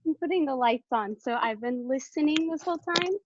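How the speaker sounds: breathless, catching her breath between phrases. Real, not acted. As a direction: talk winded after running up the stairs. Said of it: "sorry, I'm out of breath 'cause I ran upstairs".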